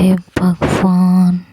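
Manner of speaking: slow drawn-out oh god; drawn-out disbelief; exasperated. Acted. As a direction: let the sigh stretch the words. Exasperated at teasing.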